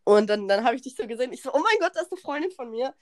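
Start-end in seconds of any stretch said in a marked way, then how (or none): 1.5-2.9 mock relief. Spots friend, acts relieved.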